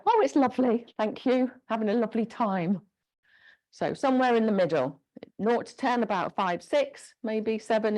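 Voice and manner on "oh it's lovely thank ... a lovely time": higher, breezy mock cheer, not working at all; too comfortable, breezy. Shown as a demonstration. Instructor mocks a participant not trying hard enough, airy cheer. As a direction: play it like the exercise is far too easy. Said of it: "you shouldn't be just like".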